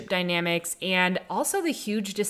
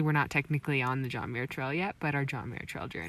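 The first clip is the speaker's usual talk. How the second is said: whispering; 4 semitones lower, 6 dB quieter than usual. Real, not acted. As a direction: whisper fast so nobody hears. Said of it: "why are you whispering".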